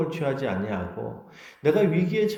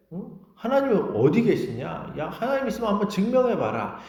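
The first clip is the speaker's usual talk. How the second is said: acted-out jeering challenge; mocking; 4 semitones higher than usual. Neighbours challenging a believer to prove God, mockingly. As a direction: taunt a believer, dragging out the scoffs. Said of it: "조롱을 하는 거예요".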